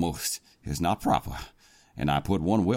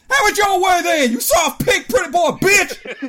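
much higher, louder snarling shout; roared back; 9 dB louder than usual. Acted. The president snarling back at the captain, roaring. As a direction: snarl and roar the insult back. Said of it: "roared back".

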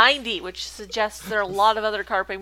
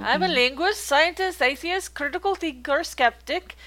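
lightly put-on German accent; bad German accent; 3 semitones higher than usual. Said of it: "this is a bad German accent".

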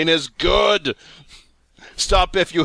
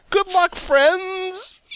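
chirpy sign-off; 12 semitones higher, much slower than usual. Acted. Reading ad sign-off.

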